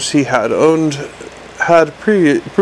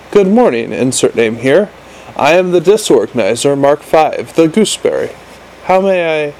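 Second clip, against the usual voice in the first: chirpy imp voice. Acted. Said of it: "speaking fast in order to get as much said".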